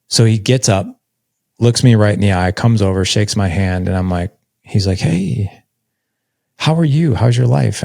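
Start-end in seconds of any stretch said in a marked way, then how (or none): 5.0-7.8 higher-pitched, drawn-out friendly hello; lightly voiced greeting from dad; imitated father's greeting. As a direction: imitate an awkward reunion greeting, pitch lifted. Voices father greeting long-lost son.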